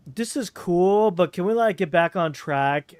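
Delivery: lightly voiced producer pleading. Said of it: "the producers would be like".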